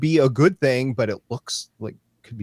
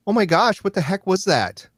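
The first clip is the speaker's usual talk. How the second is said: high-pitched, stunned oh my gosh; shocked; 9 semitones higher than usual. Real, not acted. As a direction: gasp out the disbelief at the page. Reacting to shocking last page.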